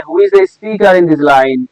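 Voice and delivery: each word drawn out very slowly; slow read-out question. Shown as a demonstration. Teacher slowly reads the exam question aloud to students. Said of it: "বা এটা যদি বলে".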